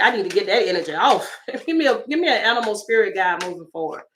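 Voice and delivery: usual speaking voice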